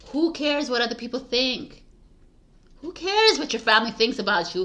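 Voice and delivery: fired-up rhetorical questions; passionate urging. Real, not acted. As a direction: shake the listener awake. Urging listener, rising intensity.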